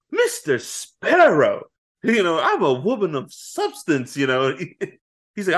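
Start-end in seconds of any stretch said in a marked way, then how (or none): 0.1-4.2 slow, higher, louder mock-proper lady; lightly voiced haughty young lady; prim Elizabeth. Elizabeth fending off Jack's advances, slow and prim. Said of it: "and she's like".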